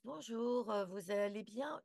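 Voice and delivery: high, sugary hostess greeting; lightly voiced air hostess; flight attendant. Shown as a demonstration. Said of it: "si on prend une voix d'hôtesse".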